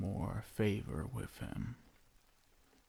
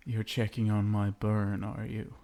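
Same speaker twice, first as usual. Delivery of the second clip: ordinary talk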